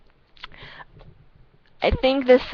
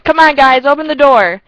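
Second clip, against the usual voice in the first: loud whiny come on guys; mock drunk begging; pleading yell; 6 semitones higher, 10 dB louder than usual. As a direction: beg through the door. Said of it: "another knock".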